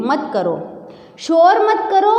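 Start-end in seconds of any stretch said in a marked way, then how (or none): 1.2-2.2 hush command. Shown as a demonstration. Teacher demos hushing command.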